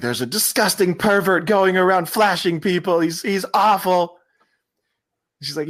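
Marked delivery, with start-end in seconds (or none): 0.0-4.2 put-on high, fluttery elderly lady voice; mock panicked old lady; panicking old woman. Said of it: "this elderly woman who's just panicking".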